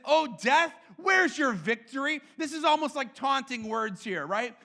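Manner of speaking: defiant, mocking challenge to death; taunting death. Paul taunting death, defiant and mocking. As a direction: taunt death like a bully who lost. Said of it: "He says".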